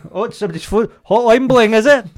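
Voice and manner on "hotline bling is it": high and loud through laughter; giggly mocking question; laughing. Real, not acted. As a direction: chuckle out the song title. Laughing mock reference to a rapper.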